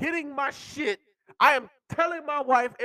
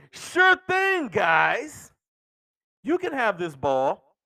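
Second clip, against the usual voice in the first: mock eager fan; 2 semitones lower, slower than usual. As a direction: play the clueless fan happily handing it over. Fan cheerfully gives ball back.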